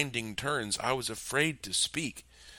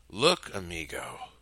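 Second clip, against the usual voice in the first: at ease; 3 semitones lower than usual. Acted. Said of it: "Peck sounded incredibly at ease".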